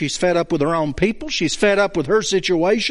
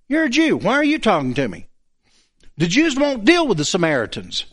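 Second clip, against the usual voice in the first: defensive, accusatory quote; accusing; 2 semitones higher, faster than usual. Acted. Samaritan woman challenging a Jew who spoke to her, accusing. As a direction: snap back as if accused first. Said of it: "She's immediately accusing him of something".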